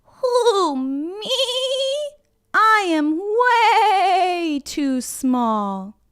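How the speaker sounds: high, slow little goat; small goat voice. Acted. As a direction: plead like a tiny goat. Little goat pleads with troll.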